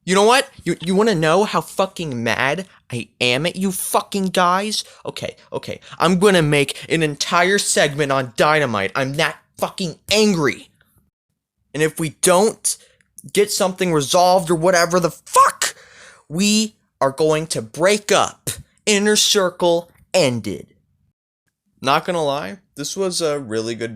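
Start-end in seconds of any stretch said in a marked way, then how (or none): 0.0-4.8 Jericho ranting. Retold or imitated. Jericho scolding his faction in a mock angry rant. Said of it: "he was like". 5.1-5.8 whispered okay, okay. Retold or imitated. Jericho calming himself down in a whisper. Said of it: "he was like". 6.0-20.7 lightly voiced wrestler threatening to break up; Jericho threatening. Jericho threatening to break up his faction, mock angry. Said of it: "he was like".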